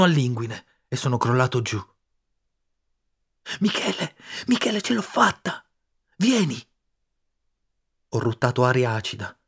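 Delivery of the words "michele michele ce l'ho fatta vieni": higher voice calling down a hole; a distant happy call; calling from afar. Acted. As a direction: friend shouting down from the surface. Friend calling from above.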